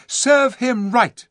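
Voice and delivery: high, loud, slow gloating; vindictive relish. A narrator's reading. Eustace on the monkey's fate, gloating loudly. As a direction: relish the punishment, hitting it hard.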